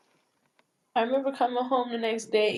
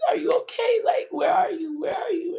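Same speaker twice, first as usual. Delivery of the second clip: frantic calling; 8 semitones higher than usual. Retold or imitated. Friends calling her after the shooting, frantic yelling. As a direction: yell for her like you're scared. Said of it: "They were like".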